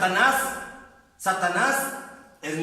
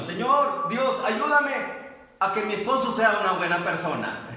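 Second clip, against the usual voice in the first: mock pleading prayer. Preacher mimics the taught prayer for congregation, lightly mocking. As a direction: replay the prayer lightly, amused. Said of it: "porque así le han enseñado".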